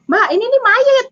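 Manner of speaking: high, startled mock alarm; driver's alarmed cry. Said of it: "kata bapak sopir itu". (sopir berteriak kaget dengan suara tinggi)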